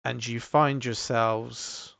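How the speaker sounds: slow, measured scene-setting with long pauses; game master narration. Acted. Game master leads players up a glowing stairway, measured narration. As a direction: unfold the scene piece by piece, unhurried.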